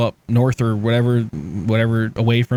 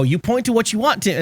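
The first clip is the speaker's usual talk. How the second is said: higher, coaxing mother voice; imitating a coaxing mom; 9 semitones higher than usual. Mother telling son to point at the menu, coaxing mom voice. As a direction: coax the toddler gently.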